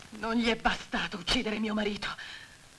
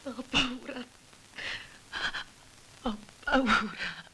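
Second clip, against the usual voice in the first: frightened admission; 4 dB quieter, slower than usual. Acted. Widow breaking down after anger.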